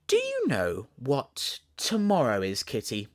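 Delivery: Alice chatting to kitten. Acted. Alice asking her kitten about tomorrow, lightly voiced little girl. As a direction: coax the kitten with a secret.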